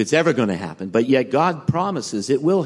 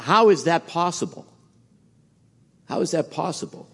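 higher-pitched puzzled question; retold bewilderment; 7 semitones higher than usual. Preacher retelling a thought to himself, higher-pitched bewilderment. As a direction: voice your own baffled inner question. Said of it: "I thought to myself".

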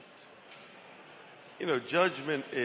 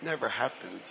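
softer, gentle dismissal of sin; quiet reassuring; 3 semitones lower, 5 dB quieter than usual. Retold or imitated. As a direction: let it go softly. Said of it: "our God says".

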